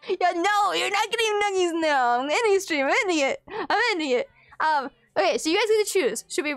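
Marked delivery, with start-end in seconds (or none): 0.1-4.3 giggling, half-crying joke; laugh-cry I'm ending it; laughing mock despair. Mock despair over nuggies.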